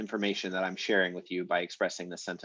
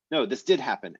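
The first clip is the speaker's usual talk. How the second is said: "did" stressed to rebut a denial; insistent DID; 2 semitones higher than usual. Acted. Teacher voicing the comeback in a dispute, stress on "did". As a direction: insist on "did", falling after. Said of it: "we automatically get out of it that emphasizing".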